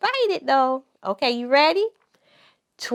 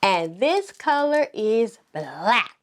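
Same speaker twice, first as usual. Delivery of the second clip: slow, clear classroom voice; pretend teacher; slower than usual. Mom playing teacher asks the pretend class to say each color. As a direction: model each color word for little kids.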